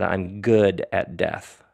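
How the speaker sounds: slow, plain and unboastful; calm quoted fact; matter of fact. Retold or imitated. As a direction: state it simply, no pride. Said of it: "not in a cocky way, matter of fact".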